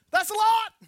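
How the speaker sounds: high, loud mock protest; a whiny, overwhelmed follower; exasperated disciple. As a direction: blurt it out like it's too much to ask. Disciple complaining about forgiving.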